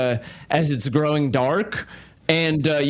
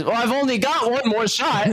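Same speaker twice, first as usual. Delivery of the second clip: higher, cocky character voice; mock the threat with a smirk; lightly voiced sniper answering back; wry taunt; 7 semitones higher than usual. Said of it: "And he says".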